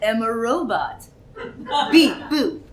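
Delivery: mock robot voice with a laugh; hammed-up beep-boop robot. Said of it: "That is offensive".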